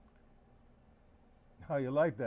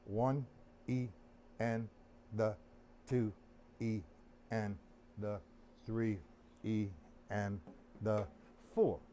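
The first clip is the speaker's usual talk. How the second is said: slow counting aloud; 6 semitones lower, slower than usual. Shown as a demonstration. Drum teacher counting for the student, slow and even. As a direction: count each beat slowly, zoned in. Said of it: "zone in on the count".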